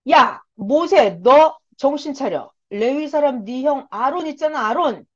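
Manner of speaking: mock-angry scolding, firm and emphatic; God. God rebuking Moses about his brother Aaron, mildly angry scolding. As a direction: act out a stern telling-off, lightly heated. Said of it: "노하여 막 화를 내시면서".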